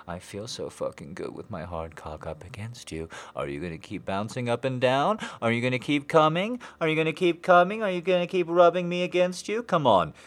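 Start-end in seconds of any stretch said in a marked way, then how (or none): 3.4-10.1 high, fast, loud urging; excited urgent. Acted. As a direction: push faster and higher.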